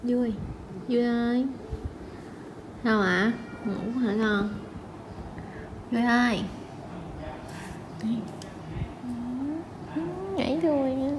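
softly calling a pet; soft coaxing. Real, not acted. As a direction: coax a dog gently, in a soft voice. Coaxing the dog Vui to come. (gọi cún nhỏ nhẹ, dỗ dành)

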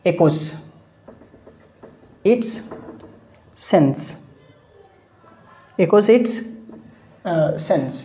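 halting, a word or two at a time; dictation pace. Shown as a demonstration. Teacher dictating a definition of onomatopoeia, slow dictation. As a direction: dictate with long pauses for writing.

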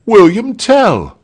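loud, high, slow proclamation; rousing announcement. A narrator's reading. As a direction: proclaim the name boldly. Announcing the chosen leader.

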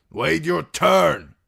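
high, loud, slow command shouted at the crowd; shouting. Acted. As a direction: bark the order over the crowd, slowly. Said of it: "they shouted".

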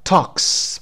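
"talks" with a clear voiceless S ending; final S sound. Shown as a demonstration. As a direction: end "talks" on a hissed S. («talks» با صدای «س» در انتها)

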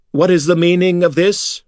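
high-pitched indignant demand; a high priest outraged at the intruder; angry demand. Acted. Priest Makar confronting the intruder, high indignant demand. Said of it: "Makar demanded".

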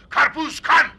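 vendor call. Acted. Vendor calling out wares.

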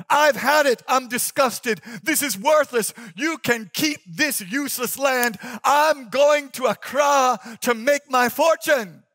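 high, loud, disgusted rant; disgusted outburst. Acted. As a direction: storm off in disgust. Disgusted younger brother quits.

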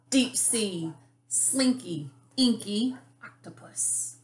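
animated picture-book narration, stretched key words; lively, expressive storybook reading; reading to children. A narrator's reading. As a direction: read it like storytime for little kids.

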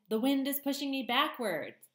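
high, eager little bird voice; a lightly voiced excited gosling; young gosling voice. Gosling struggles against the wind.

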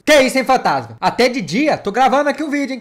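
loud, high fake-frightened yelp; mock scared outcry. Vlogger pretends a ghost startled him, loud high mock panic. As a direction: ham up being spooked by a ghost. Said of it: "tô brincando".

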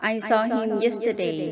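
I saw him yesterday read very slowly, saw stressed; slow model reading. Shown as a demonstration. Teacher reading a model sentence for students to repeat, slowly. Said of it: "หัดอ่านตามประโยคเหล่านี้".

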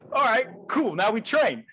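quick acted-out compliance; agreeable reply. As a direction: go along with it, eager to comply. His own cheerful reply, echoing the Russian.

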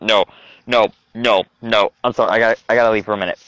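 low, queasy refusal; real queasiness, pitch dropped; nauseated. Real, not acted. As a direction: back out, feeling sick. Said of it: "I think I'm actually gonna throw up".

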